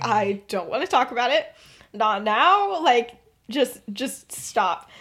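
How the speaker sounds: low, restrained irritation; firm refusal. Retold or imitated. She tells her friends to drop it, low and fed up. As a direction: close the subject, voice dropped.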